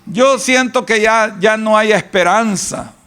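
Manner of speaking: high, defeated moaning; mock despair of a fearful person; hopeless whining complainer. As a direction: act out someone giving up on tomorrow. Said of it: "y que dicen".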